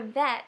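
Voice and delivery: slow, split into sounds "v-et"; sounding out words. Shown as a demonstration. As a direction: stretch "v-et" out sound by sound. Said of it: "sound out the word".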